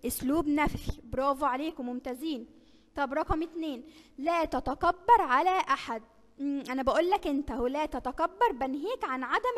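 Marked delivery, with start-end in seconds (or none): 4.2-6.0 slow example reading. Shown as a demonstration. Quiz example read slowly.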